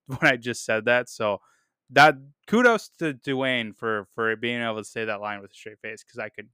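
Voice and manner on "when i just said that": real chuckle through the words; laughing at his own quote. Real, not acted. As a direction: let the laugh leak into it. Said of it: "I'm actually laughing right now".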